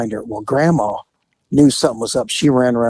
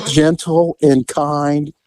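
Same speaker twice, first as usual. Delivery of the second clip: sarcastic; slower than usual. Retold or imitated. Sarcastic line to mom.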